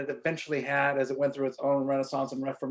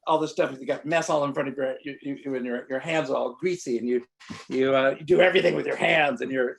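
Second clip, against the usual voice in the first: lightly mocking French chef scolding, a bit louder; a hint of a scornful French chef; 4 dB louder than usual. French chef mocking the narrator's messy apron. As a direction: tease like a sniffy French chef. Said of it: "And he said".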